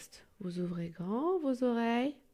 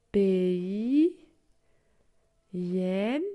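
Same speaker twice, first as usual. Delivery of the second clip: each word stressed, louder and slow; louder stressed repeat; 4 dB louder, much slower than usual. Shown as a demonstration. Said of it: "Alors je répète".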